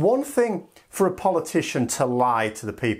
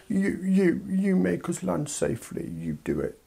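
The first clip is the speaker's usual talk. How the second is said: put-on whiny child; 4 semitones higher, 4 dB quieter than usual. UK as child demanding a safe landing, whiny demand.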